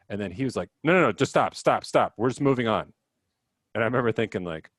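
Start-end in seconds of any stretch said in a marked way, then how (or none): 0.8-2.9 put-on upset kid. Upset student shuts down talk.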